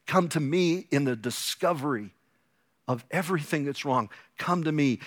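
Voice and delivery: tender invitation. Retold or imitated. Joseph inviting his brothers to come near, tender and soft. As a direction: draw them in gently, like a forgiving brother.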